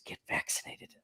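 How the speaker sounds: hushed, voiceless mimicked whisper; put-on stage whisper; imitated whisper. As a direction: whisper it into the mic, imitating him. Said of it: "and he whispers".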